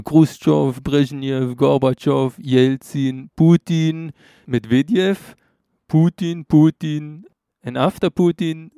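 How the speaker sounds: den Mitreisenden beim Aufzählen leicht imitieren; nachgeahmte Aufzählung. Retold or imitated. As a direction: Namen nachdrücklich einzeln aufzählen, imitierend. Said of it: "hat er aber so aufgezählt und hat so gesagt". (Wassilis Aufzählung leicht nachgemacht)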